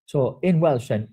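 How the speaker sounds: usual speaking voice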